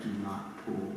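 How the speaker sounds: mock-stern, laughing through it; laughing mock warning. Telling students not to pull it out, laughing mock warning. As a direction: scold playfully, giggling.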